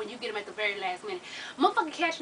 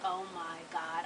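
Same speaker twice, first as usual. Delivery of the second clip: exasperated; 7 semitones lower, 12 dB quieter, slower than usual. Retold or imitated. Exasperated quiet sigh.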